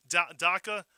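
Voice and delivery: daca said in a Fall River accent, slipped in without meaning to. Real, not acted. Radio host reading a listener's post, Fall River accent. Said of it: "Fall River accent".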